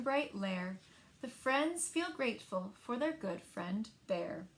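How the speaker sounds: put-on lively read-aloud for young children; story narration. A narrator's reading. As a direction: tell it like story time at the library. Librarian reads picture book aloud.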